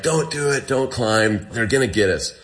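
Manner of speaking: mildly urgent, quoting someone talking him down; retold urgent plea. Friend warns climber not to try it, retold urgent plea.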